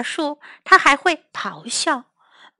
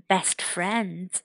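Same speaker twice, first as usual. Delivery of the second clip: soft model phrase; 6 semitones lower, 9 dB quieter than usual. Shown as a demonstration. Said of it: "你可以说".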